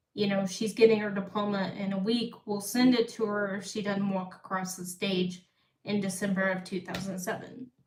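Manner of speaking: plain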